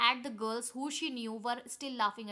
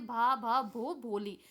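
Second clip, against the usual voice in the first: a louder stuck भ, then भोली pushed out at last; stammering through to the full name at last; 3 dB louder, much slower than usual. Acted. Bholi finally says her name. (हकलाकर पूरा नाम)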